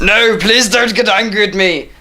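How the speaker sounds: high-pitched mock begging; pretend pleading. Snake begs angry Vinny, high mock plea.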